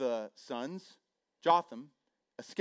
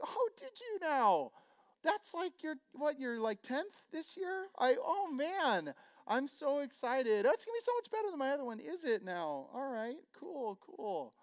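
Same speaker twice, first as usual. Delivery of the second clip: sarcastic; 12 semitones higher than usual. Retold or imitated. Mock reaction to new job.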